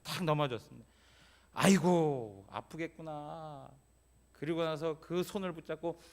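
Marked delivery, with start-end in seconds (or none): 1.5-3.7 a mother's comforting sigh, softening and slowing; tender mother. Retold or imitated. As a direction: gently soothe a hurt child. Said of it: "어떤 엄마는 어떻게 해요".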